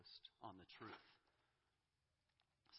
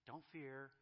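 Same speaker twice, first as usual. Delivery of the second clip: "don't fear" as a tender reassurance; gentle don't fear; 4 semitones higher than usual. Pretend. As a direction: ease "don't fear" out like calming a scared child. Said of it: "he really doesn't do that".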